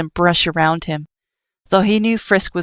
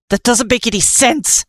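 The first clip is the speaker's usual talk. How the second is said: angry scream; 5 semitones higher than usual. Acted. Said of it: "Nightmare screamed".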